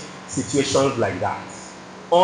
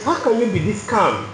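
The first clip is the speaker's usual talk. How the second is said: higher-pitched, indignant imitation of an angry man; mock-exasperated challenge, pitched up without shouting; retold anger; 4 semitones higher than usual. Angry passenger to the calm driver after a fine, mildly indignant retelling. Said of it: "He was still angry".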